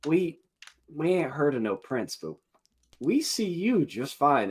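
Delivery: high, slowing goblin voice; menacing goblin. Acted. Goblins turn threatening on the bard.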